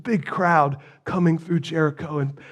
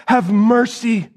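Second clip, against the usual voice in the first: crying out; 4 semitones higher than usual. Acted. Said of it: "He cries out".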